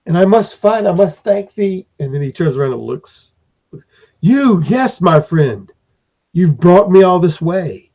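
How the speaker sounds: high, fond creature voice; a hint of a small lordly creature giving thanks; grateful master. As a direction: thank the stranger warmly and grandly. Periwinkle thanks the player.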